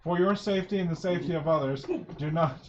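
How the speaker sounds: loud, bright flight attendant spiel; airline safety announcement. Acted. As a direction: rattle it off like cabin crew. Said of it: "airline pre-flight speech".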